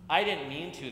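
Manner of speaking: put-on girl cries out to her broken stuffy, upset and a touch loud; crying out. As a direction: blurt it out in dismay. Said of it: "the girl cried".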